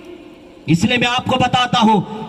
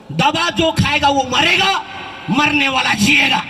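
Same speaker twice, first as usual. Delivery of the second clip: sadhu's warning. Retold or imitated. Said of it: "उसने बोला".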